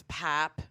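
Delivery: "pap" as Midwestern "pop", fronted vowel; regional "pahp". Shown as a demonstration. Friend disliking the local word, "pop" pronounced "pap". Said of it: "pap instead of soda".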